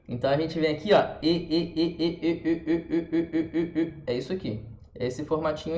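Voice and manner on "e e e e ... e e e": repeated "e" moving from spread to rounded lips; even chain of "e", gradually puckering into eu; E gliding to French eu. Shown as a demonstration. Teacher demonstrating the transition, spread E rounding gradually. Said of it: "Agora você só vai fechar os lábios num formato".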